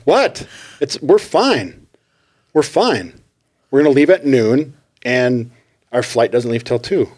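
hammed-up wife insisting they're fine; defensive wife. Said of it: "And she's like".

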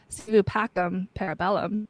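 "Si vu pacem, parabellum" said softly as Latin; Latin phrase. Shown as a demonstration. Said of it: "my Latin there".

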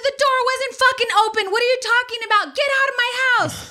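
high, fast, furious comeback; retold screaming argument. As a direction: replay a frantic shouting match. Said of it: "And I'm screaming at them".

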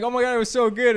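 high, loud fake gushing; hammed-up praise you don't mean; pretend enthusiasm. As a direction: put on over-the-top delight. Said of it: "You should have started pretending".

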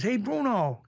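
high-pitched imitated greeting; casual call-out. Acting out the gunman's greeting.

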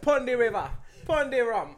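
playful Jamaican lilt; Jamaican accent. Shown as a demonstration. Coaching co-host through the accent, mock Jamaican accent. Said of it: "the Jamaican one needs a little bit of work".

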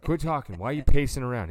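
wife telling him to stop pacing, mock scolding. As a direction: snap at him like the fed-up wife.

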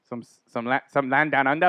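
lightly put-on Aussie accent; playful Australian accent. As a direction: toy with a mock Australian accent. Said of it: "I don't know why I'm talking like that".

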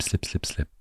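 "slip, slip, slip" whispered away to nothing; fading whisper. Shown as a demonstration. Word of the day repeated until it fades. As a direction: let each "slip" drop off into a whisper.

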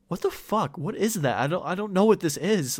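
high-pitched mock-panicked mom; freaking out. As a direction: imitate a mother losing it over a picture. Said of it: "she was, like, freaking out".

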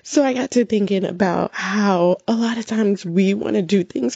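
moved, holding back tears; getting emotional. Real, not acted. Mom telling viewers their kids are proud of them, getting emotional. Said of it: "I don't know why I'm getting emotional about this".

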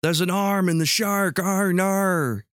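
high-pitched, badly faked Australian; off-target Australian accent. Shown as a demonstration. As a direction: attempt an Australian accent that drifts elsewhere. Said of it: "We've deviated from Australia into something a little bit different".

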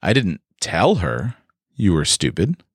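hint you said it another way by leaning on "tell"; stress on tell. Shown as a demonstration. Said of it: "I may have implied it".

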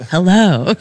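breathy mock seductive hello; a lightly voiced sultry woman; seductive lady voice. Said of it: "incredibly seductive, like, lady voice".

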